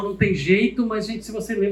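ordinary talk, nothing marked

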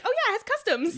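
high, loud burst of false triumph; mock realisation. Podcaster retelling a drag queen's silly logic, mock realisation. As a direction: imitate a clueless person proudly catching on.

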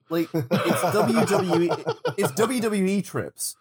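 laughing through the words. Real, not acted. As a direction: chuckle while saying it. Laughing joke.

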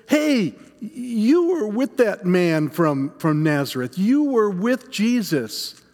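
a slow, pointed accusation, lightly voiced; accusing serving woman. Serving woman points out Peter by the fire, accusing. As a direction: lightly play a woman calling someone out. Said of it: "looks at me and says".

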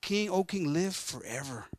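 soft, falling address to a king; respectful. Acted. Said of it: "Le dando mucho respeto al rey".

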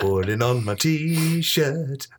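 very slow, grand intro voice; slow announcer voice. Pretend. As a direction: drawl it out like a TV feature opener. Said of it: "Steve's regular feature".

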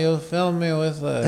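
a put-on voice for a line from the film; half-hearted film-accent quote; mock Matt Damon Ripley line. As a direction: quote it in his movie voice. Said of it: "I can do a couple lines".

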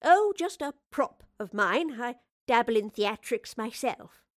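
a touch of theatrical modesty; a hint of the professor, airy and unhurried; lightly voiced professor.

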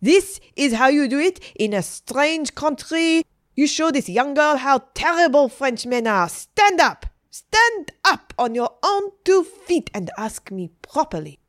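high, loud indignant scolding; scold, building to a sharp command; very upset. A narrator's reading. Adeline scolds the kneeling teacher, very upset. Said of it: "Adeline got very upset".

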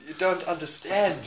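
mock Spanish accent, softening at the end. Spanish star insisting women love him, mock Spanish accent. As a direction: plead your case in a put-on Spanish accent. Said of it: "Give me Spanish".

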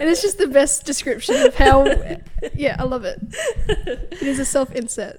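laughing. Real, not acted.

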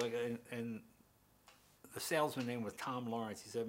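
ordinary talk

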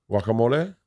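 guacamole with a Spanish pronunciation; imitated server's Spanish accent; extra Spanish. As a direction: put extra Spanish on the word. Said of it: "They put the fucking extra Spanish on the word".

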